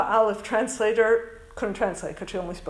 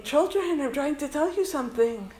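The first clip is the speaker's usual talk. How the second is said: higher, lightly voiced fatherly appeal; God addressing His children; 5 semitones higher than usual. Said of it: "And he's saying".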